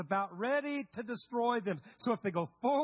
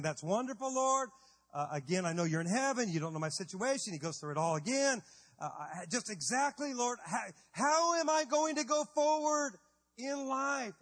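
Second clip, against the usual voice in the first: exasperated Moses; 3 semitones higher than usual. Retold or imitated. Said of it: "I'm sure Moses is thinking".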